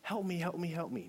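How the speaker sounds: high repeated plea, without real crying; retold tearful begging. Man retelling his unanswered prayer, mildly tearful pleading. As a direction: re-enact a helpless, pleading prayer. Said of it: "I'm crying like a baby".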